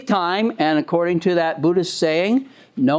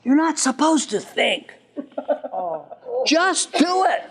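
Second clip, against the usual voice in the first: half-laughing mock yell, pitched up; mock father shouting; 7 semitones higher than usual. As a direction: play the bossy dad, chuckling through it. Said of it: "And the father shouts".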